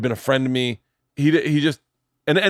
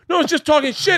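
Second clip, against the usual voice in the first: high backpedaling; 14 semitones higher than usual. Retold or imitated. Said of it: "And the guy's like".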